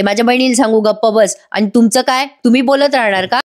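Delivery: understated mock indignation; retold irritation. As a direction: snipe back with acted annoyance. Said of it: "Kavya चिडून म्हणते".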